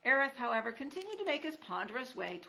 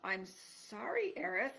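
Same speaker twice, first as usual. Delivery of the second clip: sniveling; 3 semitones higher, slower than usual. Acted. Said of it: "in a voice that was, at best, sniveling".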